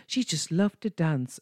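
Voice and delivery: lightly hammed-up fairy-tale narrator; mock storyteller. Retelling her mock storybook narration.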